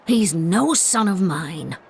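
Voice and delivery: slow, final, cold denial; slow cold finality. Acted. Bitter mother disowning her son, slow and cold. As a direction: spell each word out with finality.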